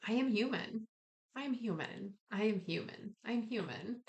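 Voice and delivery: a soft mantra said to oneself; soothing affirmation. Shown as a demonstration. Repeating affirmation to herself.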